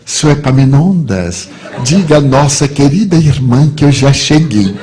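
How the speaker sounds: put-on sweetness, projected to the room; sugar-coat the message, drawing out the name; sweetened voice. Caught-out man to porter on intercom, sweetened voice. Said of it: "adocei a voz".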